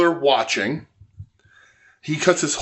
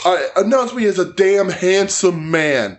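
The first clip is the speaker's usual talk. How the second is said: shrill falsetto mockery of a diva; mocking high-pitched woman; 6 semitones higher than usual. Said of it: "And she's like".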